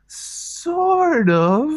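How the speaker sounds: high, drawn-out awkward hedge; sheepish, reluctant half-admission; sheepish hedging. Acted. Acted awkward answer to date.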